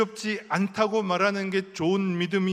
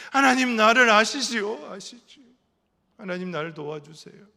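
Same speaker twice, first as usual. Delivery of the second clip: pleading prayer; 3 semitones higher, 6 dB louder than usual. Retold or imitated. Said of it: "내가 무섭다고 말하는 순간".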